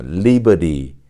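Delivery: American model "리버리" with flapped T; American pronunciation. Shown as a demonstration. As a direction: say "리버리" the American way, R-coloured middle. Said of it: "미국식 발음이에요".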